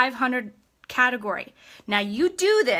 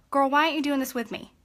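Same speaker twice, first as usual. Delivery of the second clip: quick casual ask; faster than usual. Shown as a demonstration. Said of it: "This is what you say".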